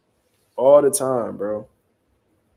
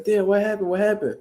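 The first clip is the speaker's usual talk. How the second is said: higher-pitched mock call-out; imitated calling across; 6 semitones higher than usual. Stepdad calling from across the street, mock calling out. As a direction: imitate a curious stepdad without raising volume. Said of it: "talking from across the street".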